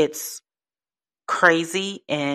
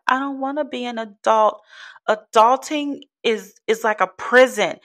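higher-pitched mock whine of a little girl; imitating crying child; 7 semitones higher than usual. Retelling a little girl's complaint to her mom, mock-tearful. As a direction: complain like an upset little girl, lightly put on. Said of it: "and she's crying".

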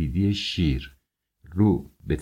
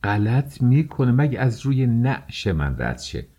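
outraged refusal; 5 semitones higher, 3 dB louder than usual. A narrator's reading. Outraged mother refuses the suitor.

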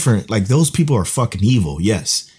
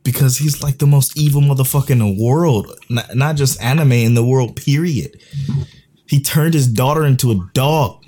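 higher-pitched, emphatic outrage; heated rant; 5 semitones higher than usual. Real, not acted. Fan tells co-host why the villain is worst, heated. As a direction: argue it with real indignation.

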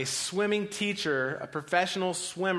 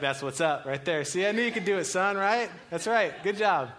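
proud praise; 4 semitones higher, 3 dB louder than usual. Retold or imitated. Dad praising son after swim.

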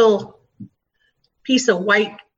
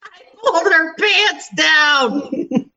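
long, stretched-out joking holler, higher in pitch; drawn-out mock shout; 5 semitones higher, much slower than usual. Friend joking about pantsing the coworker, drawn-out mock shout. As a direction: holler it slowly as a jokey confession.

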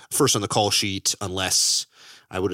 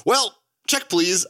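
mock prim reply; 8 semitones higher, 3 dB louder, slower than usual. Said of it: "And I said".

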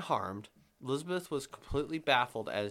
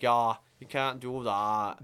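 northern Vermont drawl. Retold or imitated. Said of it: "they talk like that".

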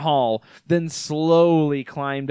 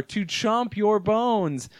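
slow creature voice; 4 semitones higher, much slower than usual. Acted. Creature answers.

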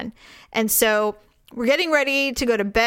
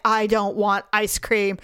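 sulky refusal. Retold or imitated. Still angry, refuses husband's offer.

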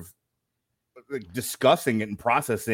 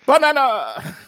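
Minion voice; 13 semitones higher, 7 dB louder than usual. Pretend.

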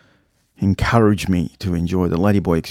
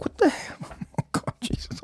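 whispered disbelief; 11 dB quieter than usual. Retold or imitated. Stunned reaction to her messages.

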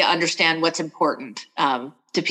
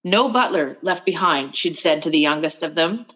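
measured, even reading-aloud voice; story narration; 2 semitones higher than usual. Acted. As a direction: read the passage like an audiobook narrator. Author reads excerpt of novel.

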